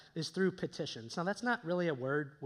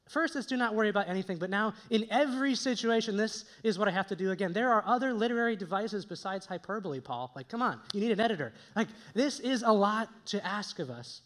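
mock exasperation; 3 semitones higher, 4 dB louder than usual. Mock quarrel with apostle Paul.

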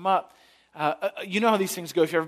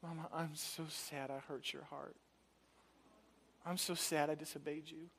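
put-on tender child; 17 dB quieter than usual. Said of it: "my daughter says".

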